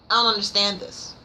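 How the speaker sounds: "I don't understand this" thrown out, exasperated. Real, not acted. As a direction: push "don't" up in frustration. Repeating her confusion about the book.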